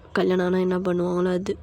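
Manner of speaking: low, quiet male-role murmur; soft, low-pitched coaxing; husband's intimate hint. Acted. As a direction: suggest it privately, voice dropped. Husband's intimate suggestion to wife.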